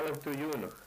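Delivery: Aleph Tuyunach, stress on Aleph and a throaty ach at the end; careful native Aleph Tuyunach; Aleut dual phrase. Shown as a demonstration. Showing the linguist how to say two chiefs, careful pronunciation. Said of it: "We say".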